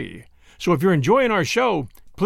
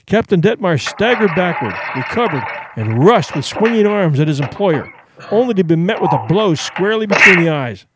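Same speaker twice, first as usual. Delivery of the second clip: story narration. A narrator's reading. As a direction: tell the fight like an audiobook narrator.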